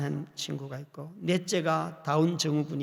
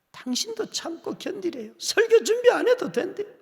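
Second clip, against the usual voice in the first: higher, laughing retelling; louder laughing delight; 14 semitones higher, 5 dB louder than usual. Real, not acted. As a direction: laugh through the words.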